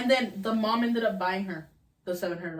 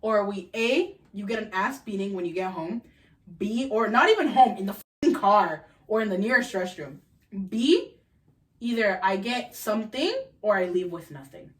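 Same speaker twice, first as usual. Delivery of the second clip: 1 stern mom. Retold or imitated. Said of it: "My mom would have been like".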